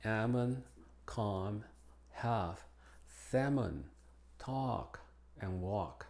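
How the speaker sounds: "calm, half, salmon, talk, walk" with no L; "salmon" as "sammon", "half" as "haff"; silent L. Shown as a demonstration. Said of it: "es muda en algunas palabras".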